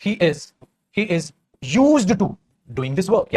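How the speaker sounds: very slow, word by word; drawn-out teaching read; slow dictation. Shown as a demonstration. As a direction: spell it out for the class. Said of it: "teacher drawls example slowly".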